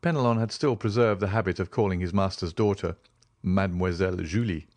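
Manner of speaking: usual speaking voice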